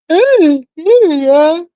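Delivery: loud, high hey hey to the chat; bright shouted hey y'all greeting; excited calling out. Real, not acted. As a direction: call out a big hello.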